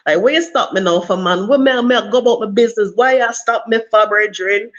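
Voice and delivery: playful Jamaican patois to disarm a cop; Jamaican accent. Retold or imitated. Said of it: "that's Jamaican".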